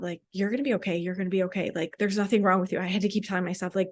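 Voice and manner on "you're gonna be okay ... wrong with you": reassuring self-talk. Retold or imitated. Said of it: "that voice that kept coming up".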